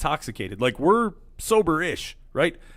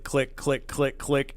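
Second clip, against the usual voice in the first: soft rollercoaster click sounds; imitated clicking; 5 dB quieter, much slower than usual. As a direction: tick it out like a ride chain. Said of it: "it's click".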